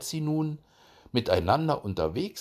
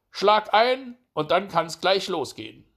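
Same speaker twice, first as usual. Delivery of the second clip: high, raised hare voice; cocky hare impatient to begin; eager hare; 9 semitones higher, 6 dB louder than usual. A narrator's reading. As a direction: urge it on, high and loud.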